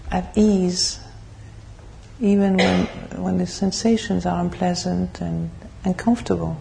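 measured, even meditation guidance with long pauses; guided meditation. Real, not acted. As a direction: lead the group calmly into stillness, phrase by phrase.

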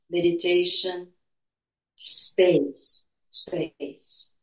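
hushed, unhurried calm of a healer; airy breathy mystical healer. Acted. Leads a guided meditation.

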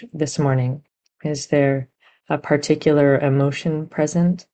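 gentle, unhurried meditation guidance with long pauses; guided meditation. Real, not acted. Teacher guiding meditators to sense body and heart, measured meditation voice. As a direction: guide listeners inward, leaving room between phrases.

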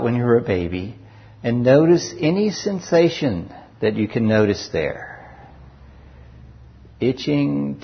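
unhurried guided body-scan voice, long pauses between phrases; guided meditation. Real, not acted. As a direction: guide listeners calmly through each sensation, leaving space after each.

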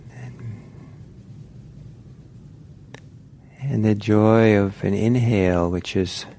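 unhurried guiding voice with long pauses; guided meditation. Real, not acted. Teacher settling meditators into posture and breath, unhurried guided meditation. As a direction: ease them gently into the practice, leaving space.

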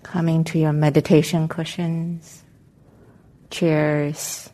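calm, unhurried meditation guidance with long pauses; guided meditation. Real, not acted. Meditation teacher helping the group settle into their seats, calm guided meditation. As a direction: guide them gently into arriving, leaving space between phrases.

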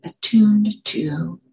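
unhurried guiding voice with long pauses; calm meditation teacher, phrase by phrase; guided meditation. Real, not acted. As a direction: lead them gently into settling, leaving space between phrases.

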